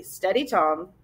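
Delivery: calm him with a light touch; lightly. Acted. Professor quietly steadying Tom, soft and light. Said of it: "professor said lightly".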